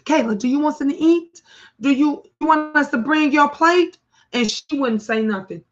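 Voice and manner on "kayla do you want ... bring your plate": a touch higher, fast coaxing offer; sweetly cajole the sister, quickly; lightly imitating siblings. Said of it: "they would say".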